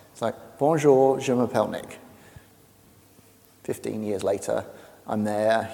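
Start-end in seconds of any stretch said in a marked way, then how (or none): 0.6-2.0 school French pupil. Retold or imitated. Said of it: "When you go to school French class".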